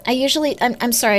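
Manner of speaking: apologizing while chewing; biting an apple. Real, not acted. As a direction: mouth full of apple. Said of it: "I'm eating an apple".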